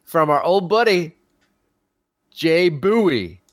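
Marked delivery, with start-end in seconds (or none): 2.3-3.4 Bowie said slowly as BOO-ee; Southern pronunciation. Shown as a demonstration. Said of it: "pronouncing it with a Southern accent".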